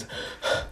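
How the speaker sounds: breathy exhausted puff; voiceless acted pant; imitated panting. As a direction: puff out air as if winded. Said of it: "Izuku stares there panting".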